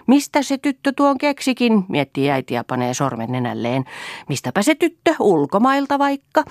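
mother marvels at her daughter; lightly voiced mother. A narrator's reading. (äiti ihmettelee tytärtään, kevyesti)

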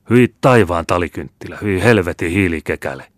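loud spluttering curse of disgust; disgusted outburst. Acted. Captain who swallowed a foul drink cursing in disgust, loud. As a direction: spit the curses out loud in revulsion.

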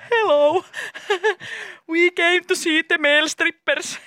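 high, slow, sing-song English greeting; chirpy greeting. Retold or imitated. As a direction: play it like eager tourists asking politely. Retold greeting at strip club.

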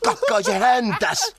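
high, slow sing-song mockery; mocking call. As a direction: mimic their call to tease. Mocks the call back. (pilkallisesti, hitaasti)

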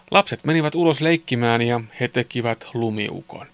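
put-on clear, measured children's story reading; story narration. A narrator's reading. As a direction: narrate a Christmas tale sentence by sentence. Reads a Christmas story. (selkeä joulusadun kerronta)

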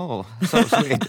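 high mock-sweet cooing; hammed-up polite adoration in English; gushing foreigner. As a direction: coo it like a charmed tourist. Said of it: "sit ne on sillä lailla".

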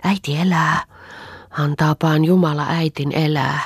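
joy spilling over into the words; glowing with joy. Acted. Anni tells Auno her mother will live, joyful. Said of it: "virkkoi ilosta hehkuvana".

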